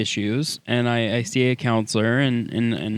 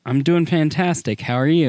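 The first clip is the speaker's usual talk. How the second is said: trying it out smiling; 3 semitones higher than usual. Shown as a demonstration. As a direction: say it with a grin. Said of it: "You're smiling".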